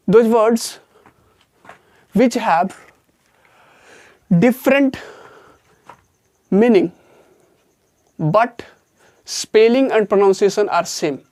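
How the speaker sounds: very slow, word-by-word dictation pace; reading a definition aloud slowly for notes. Shown as a demonstration. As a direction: spell it out slowly so students can write.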